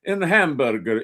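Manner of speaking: hammy mock Russian accent; American faking a Russian accent; hack Russian accent. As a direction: do the cliché movie Russian. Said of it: "anytime an American does a Russian accent".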